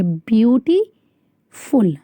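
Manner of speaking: ब्यूटीफुल drawn out slowly in two beats, ब्यूटी then फुल; syllable demo. Shown as a demonstration. Teacher counting sounds in a word for the class, slow and clear. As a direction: stretch ब्यूटीफुल so its two sounds can be heard. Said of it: "तो दो sound आ रही है".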